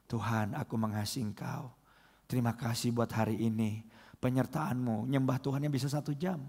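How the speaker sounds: low, soft, tender prayer; hushed bedside devotion, acted; devout prayer. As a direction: pray quietly and lovingly to God. Acting out a devout evening prayer.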